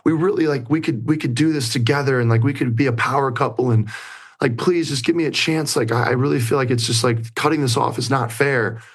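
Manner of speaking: high-pitched imitation of her pleading; mock tearful plea, high and insistent; retold tearful pleading. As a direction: voice her begging for a chance, pitched well up. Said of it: "she starts crying".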